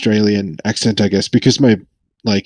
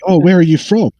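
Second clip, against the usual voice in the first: higher-pitched curious stranger asking; imitated curious question; 7 semitones higher, 3 dB louder than usual. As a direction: mimic a nosy Aussie asking origins.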